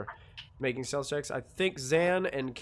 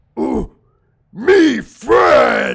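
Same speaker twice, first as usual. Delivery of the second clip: very loud, booming, swooping ogre bellow; 8 semitones higher, 18 dB louder than usual. Voicing an ogre emerging from a tunnel toward the players: ogre voice. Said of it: "an ogre emerges out of this tunnel".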